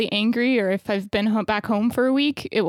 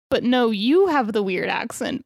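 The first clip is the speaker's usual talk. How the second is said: "you" pushed up in pitch, a mock accusation; stress on "you". Retelling kids and Boston man trading blame, "you" stressed. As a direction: throw the blame back by leaning on "you". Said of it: "Like Spider-Man, that Spider-Man meme".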